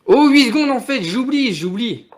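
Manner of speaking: loud, high panicked rush; scrambling as time runs out. Real, not acted. Eight seconds left, panic.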